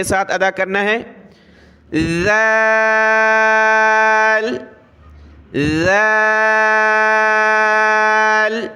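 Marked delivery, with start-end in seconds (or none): 2.2-8.7 ذال drawn out, tongue tip between the teeth, soft; slow soft ذال, tongue between teeth; soft tongue-out zal. Shown as a demonstration. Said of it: "سا کی طرح اس میں بھی زبان کی نوک دانتوں سے باہر نکال کر".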